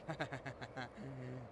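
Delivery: mock chuckle, imitating own thoughts; put-on giggle; imitated inner laugh. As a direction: act out a laughing brain. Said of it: "I heard myself and I was like".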